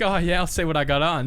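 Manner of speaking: a lightly put-on innocent reply to a golf invite; mock coy. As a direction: act casually innocent, hiding the secret. Playing coy about announcement.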